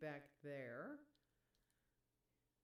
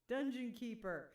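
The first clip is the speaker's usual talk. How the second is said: laughing; 4 semitones higher, 7 dB louder than usual. Real, not acted. Laughing while reading a name.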